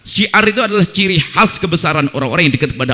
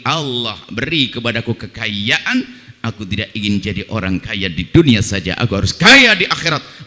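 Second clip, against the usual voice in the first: grateful prayer; 8 semitones lower than usual. Pretend. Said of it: "Dia justru mensyukuri".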